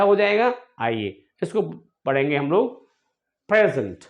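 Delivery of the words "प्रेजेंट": प्रेजेंट in a British English accent. Shown as a demonstration. Teacher demos प्रेजेंट in British English accent. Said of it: "British English में बोलना चाहें".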